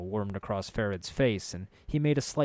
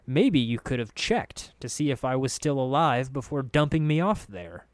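mildly acted irritation, pitch raised; a touch of growling reproach; growled; 4 semitones higher, 4 dB louder than usual. Narrator blaming Anna for dumping him, irritated growl. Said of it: "I growled".

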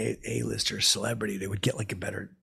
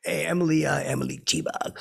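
teasing call; 6 semitones higher than usual. Retold or imitated. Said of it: "pretending to get her name wrong".

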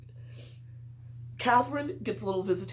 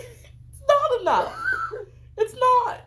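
laughing; 6 dB louder, slower than usual. Real, not acted. Laughing while quoting Catherine.

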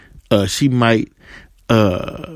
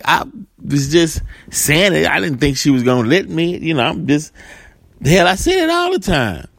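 higher-pitched mock protest; acted defensive protest; 6 semitones higher than usual. Joe excusing himself to the supervisor, high defensive protest. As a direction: plead innocence, playing the accused.

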